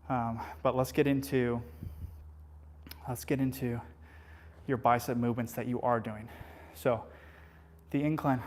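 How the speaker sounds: breathless between sets; talking while catching his breath. Real, not acted. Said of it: "catching my breath".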